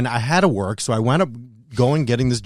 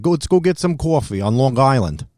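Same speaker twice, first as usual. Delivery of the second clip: put-on Long Island accent. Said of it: "that's how he used to speak".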